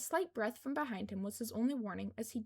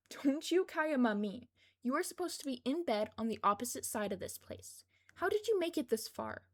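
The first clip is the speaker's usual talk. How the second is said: exasperated scolding; 3 semitones higher, 4 dB louder than usual. Acted. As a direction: scold the boy who snuck out. Kayama scolds Izuku for sneaking.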